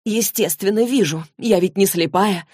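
mildly indignant retort. Acted. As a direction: protest with a touch of indignation. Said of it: "возмутилась Клэри". (слегка возмущённо)

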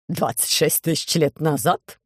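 насмешливый вопрос, медленно; с издёвкой переспроси; иронически. Acted. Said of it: "иронически спросил диспетчер". (диспетчер иронизирует над Громозекой)

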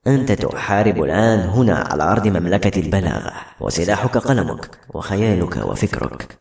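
low, measured voice of counsel; solemn mentor figure. Acted. Urging a writer to fight on with his pen, solemn and low.

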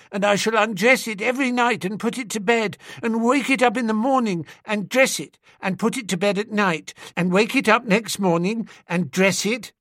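put-on high, fast childish chatter; a small girl running on breathlessly about her doll; little girl rattling on. A narrator's reading. Little girl telling Bertie about her doll, rattling fast and high.

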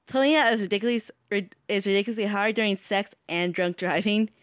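lightly voiced nerd; nerd accent. Reading a card to friends, mild nerd accent. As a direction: read it as a slight nerd. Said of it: "That's how my nerd accent".

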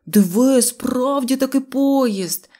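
slow, drawn-out astonishment; amazed. A narrator's reading. Neznaiko sees a real train, amazed. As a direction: marvel at it, stretching the words. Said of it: "здивувався Незнайко".

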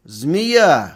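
put-on loud, high furious drunken yelling; angry shout. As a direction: scream at the betrayer, stamping. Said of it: "стал кричать, топая ногами". (яростный крик, громко и высоко)

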